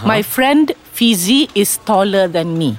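slow, careful correction; slow model sentence. Shown as a demonstration. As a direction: say it slowly so they can copy. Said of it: "To make it neater".

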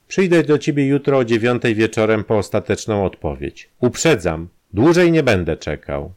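lightly voiced blackmailer, pushing; Kramer's voice. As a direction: press the demand home.

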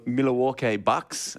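"Milwaukee Bucks" drawn out slowly, syllable by syllable; slow careful name. Shown as a demonstration. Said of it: "that's perfect".

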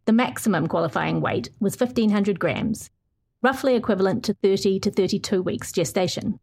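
measured, earnest feature read; story narration. Acted. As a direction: read it like a radio documentary. Reads her feature story aloud.

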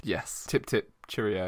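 a prim Queen's English aside; mock upper-class English accent; posh English accent. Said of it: "Queen's English".

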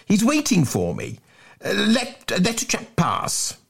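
high, stuttering schoolboy plea; Bunter. Acted. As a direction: plead urgently, tripping over the first word. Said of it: "gasped Bunter".

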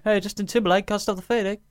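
cheesy DJ intro. Shown as a demonstration. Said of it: "it can get a bit repetitive going".

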